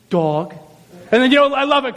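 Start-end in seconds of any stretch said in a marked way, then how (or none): 0.1-0.5 low, lightly acted weariness; tired Adam. Adam running out of animal names, mildly weary. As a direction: toss out one word, worn out. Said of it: "he's tired, he's worked".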